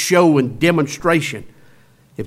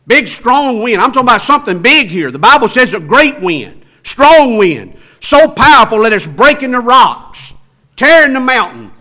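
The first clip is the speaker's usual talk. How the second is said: louder and higher, building the big wind; preaching loud; 4 semitones higher, 5 dB louder than usual. Acted. Preacher to congregation about the mighty wind, louder. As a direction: swell it up to show the power.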